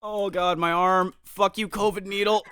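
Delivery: playful pained whine; mock agony. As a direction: groan and curse at a sore arm, hammed up. Mock complaint about sore arm.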